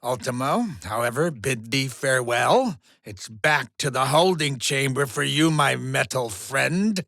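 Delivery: low, measured farewell; deep, slowing goodbye; ominous dismissal. Acted. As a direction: send them off in a low voice. Dismisses defeated machine to chamber.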